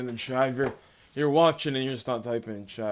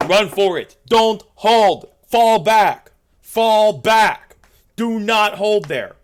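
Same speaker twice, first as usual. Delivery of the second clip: high, loud desperate yelling; frantic retreat order; 13 semitones higher, 17 dB louder, much slower than usual. Acted. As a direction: scream the retreat, last line slow. Retreat under fire, yelling.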